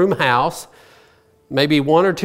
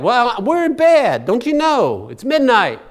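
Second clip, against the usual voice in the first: irritated; 6 semitones higher than usual. Retold or imitated. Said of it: "starts yelling at him".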